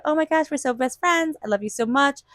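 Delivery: high, sugary gush, mock-sincere; gushing fake friend. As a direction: ham up an insincere best friend.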